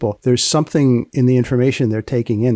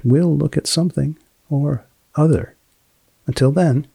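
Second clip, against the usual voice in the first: announcer-style sign-off; polished closing read for the podcast; podcast outro read. Acted. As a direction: wrap up the show like a radio host. Host reads podcast outro.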